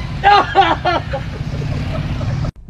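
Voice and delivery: wheezing, voiceless laughter; breathless silent laugh. Real, not acted. Laughing at his own accent, breathless and voiceless. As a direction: laugh without voice.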